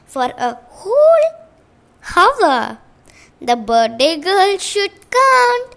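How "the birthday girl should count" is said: loud bossy call; yelled. A narrator's reading. Bossy friend yelling at the birthday girl. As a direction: Priya yelling across the room. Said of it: "yelled Priya".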